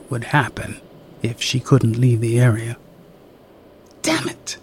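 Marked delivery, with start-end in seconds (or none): 4.0-4.6 hissed softly through the teeth. Acted. Woman alone in frustration, soft hiss. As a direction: spit it under her breath. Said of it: "she hissed".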